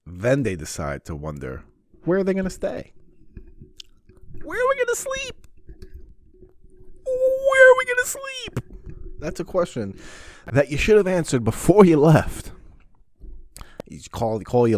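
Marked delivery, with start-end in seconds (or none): 2.1-8.6 very high, squeaky mock-whine; mocking whiny brother. Mocking brother's last-minute panic. 9.2-12.5 higher and louder, fed up; exasperated rant. Real, not acted. Ranting at brother's planning.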